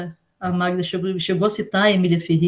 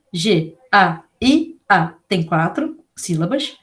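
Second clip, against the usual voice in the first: slow explanation; 2 semitones lower, slower than usual. Shown as a demonstration. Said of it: "noção da quantidade de sílabas".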